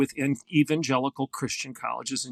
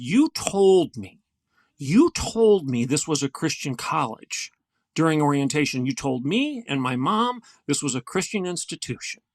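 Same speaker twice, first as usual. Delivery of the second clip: retold anger. Freshman complaining to the vice president, mildly angry. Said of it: "And he was angry".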